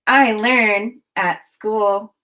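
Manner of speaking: "I learn at school" slowly, each word set apart; slow, separated words for counting along. Shown as a demonstration. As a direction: count out "I learn at school" with a small gap after every word. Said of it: "a finger in the air for each word you hear".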